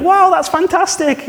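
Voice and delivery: very high, slow, gushing "wow"; overdone parent praise. Retold or imitated. Parent praises the child's drawing, exaggerated delight. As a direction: lay the praise on thick, stretching it out. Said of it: "you're like".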